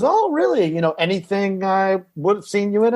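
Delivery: lightly voiced seatmate perking up; mock surprise. Seatmate hearing he is an actor, mock surprised. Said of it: "He goes".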